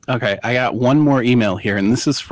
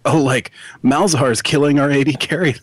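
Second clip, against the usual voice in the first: lightly voiced idle onlooker, pitched up; mock teammate; 4 semitones higher than usual. Teammates watching a team fight, mock onlooker voice. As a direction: put on a slightly higher teammate's voice. Mocking imagined teammates' passive reaction.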